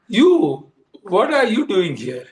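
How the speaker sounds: a startled "You," then a lighter question; imitating the old man caught off guard; surprised. Old man surprised to see the driver at his door, mildly startled.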